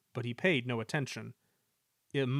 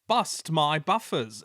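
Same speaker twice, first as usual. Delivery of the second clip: exclamation; 3 semitones higher, 6 dB louder, slower than usual. A narrator's reading. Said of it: "exclaimed Rusty".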